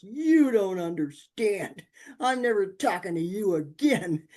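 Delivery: put-on upset child. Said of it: "He looked at me and he goes".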